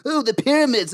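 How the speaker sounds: high breathy-free cooing awe, hammed-up; mock wonder. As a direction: coo over the pyramids like a starstruck tourist.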